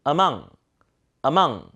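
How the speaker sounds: among with a faint schwa, then stressed second syllable; weakened first vowel. Shown as a demonstration. Teacher modelling for repetition, among with weak first vowel. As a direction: reduce the A of among to 으. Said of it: "제가 한번 읽어봐 드리니까".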